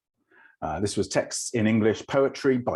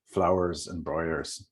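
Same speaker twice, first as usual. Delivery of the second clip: Irish accent; 2 semitones lower, slower than usual. Shown as a demonstration. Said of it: "like my mum, who's Irish".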